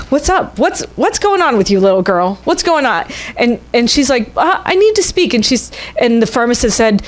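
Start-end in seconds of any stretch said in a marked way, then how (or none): 0.1-3.1 put-on a touch higher, friendly shopkeeper asking a child; lightly voiced pharmacist. Pharmacist greets impatient little girl. 4.4-5.3 put-on much higher, insistent child; little girl voice. Little girl demands attention.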